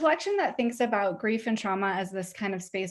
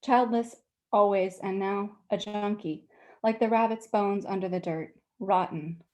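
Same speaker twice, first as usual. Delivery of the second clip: measured, deliberate prose reading with pauses between images; author's unhurried public reading voice; literary story reading. A narrator's reading. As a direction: read it aloud to an audience, weighing each phrase. Reads own short story aloud.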